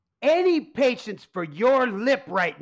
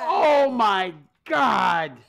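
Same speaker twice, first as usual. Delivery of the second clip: horrified gasp; 3 semitones lower, much slower than usual. Acted. Tony sees Domino's pizza.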